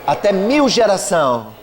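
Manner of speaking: slow, emphatic preaching of the verse; preaching scripture. Acted. Pastor proclaiming the verse to the congregation, slow and emphatic. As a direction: drag out each word like a proclamation. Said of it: "Fala pra alguém do teu lado".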